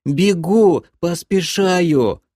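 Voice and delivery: high, drawn-out whine; piercing, plaintive voice. A narrator's reading. Captive creature hurrying after the guard, piercing plaintive whine. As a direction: pipe up pitifully, dragging out the words. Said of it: "пронзительный и жалобный голос".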